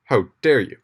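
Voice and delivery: a wronged seer snapping back; mock-outraged old prophet; indignant prophet. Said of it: "Tiresias is like".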